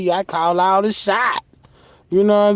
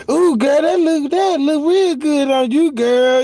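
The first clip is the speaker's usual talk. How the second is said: mock gushing girlfriend; 5 semitones higher than usual. Gushing over a wig.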